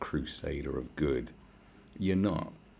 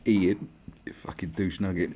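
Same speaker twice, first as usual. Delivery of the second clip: loud shouted rant; furious loud tirade at an imagined critic; angry rant; 3 semitones higher, 5 dB louder than usual. Acted. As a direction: yell it at the douche. Ranting at imagined vegan.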